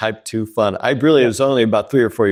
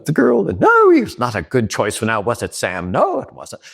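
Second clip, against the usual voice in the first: forgiving Irish voice. Retold or imitated. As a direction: gently scold in a lilting Irish accent. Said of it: "the voice was, was kind of fun and very forgiving".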